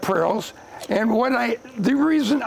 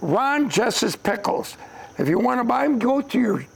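ad read. Pretend. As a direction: say the brand name like a commercial. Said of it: "You better retake that".

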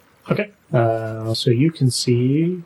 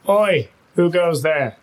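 bandit challenge; 5 semitones higher, slower than usual. Acted. Bandit challenges strangers at river.

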